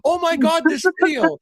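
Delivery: high, loud mock gushing; hammed-up squealing excitement; excited fans. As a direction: imitate frantic excited texts. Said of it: "you guys are blowing up my phone with".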